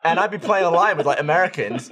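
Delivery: ordinary delivery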